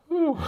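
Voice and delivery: a sharp, high whistling whew. Real, not acted. Exhale at a grim thought.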